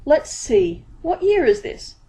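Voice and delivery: high, eager street-hawker voice; bright-eyed salesman, pitched high; Dibbler the pieman. A narrator's reading. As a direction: pitch it up like a pushy pie seller. Dibbler asks.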